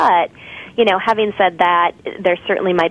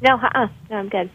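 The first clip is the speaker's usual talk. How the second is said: choppy, breaking-up phone line; breaking up space radio; 5 semitones higher, 3 dB quieter than usual. Real, not acted. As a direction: voice dropping out over a bad connection. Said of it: "you're breaking up just a little bit".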